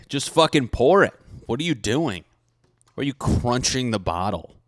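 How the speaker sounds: mock-outraged scolding of a stranger; exasperated scolding. Scolding a bottle cruncher.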